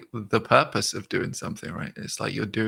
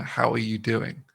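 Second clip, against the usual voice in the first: slow formal greeting; slower than usual. Shown as a demonstration. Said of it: "more than a".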